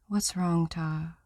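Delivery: almost whispered, worried question; wife asks her husband softly with worry; worried near-whisper. Acted. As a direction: ask softly, letting worry lift it. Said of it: "in almost a whisper, pitched up with worry".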